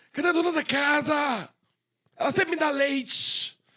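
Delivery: high-pitched, unhinged, crazed woman's voice. Recalling a woman at a barred window asking for someone: imitating a crazed woman's voice. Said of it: "Doida, assim".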